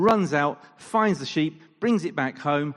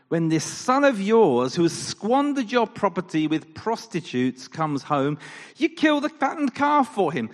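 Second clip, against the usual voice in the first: louder and rising higher to an outraged peak; indignant accusation; 6 semitones higher, 6 dB louder than usual. Retold or imitated. Older son angrily accusing his father of favouring the brother. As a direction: build from grievance to outrage.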